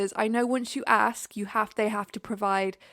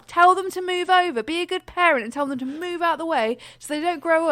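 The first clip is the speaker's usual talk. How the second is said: inner rant; 3 semitones higher, 3 dB louder than usual. Retold or imitated. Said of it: "that's what goes through my head".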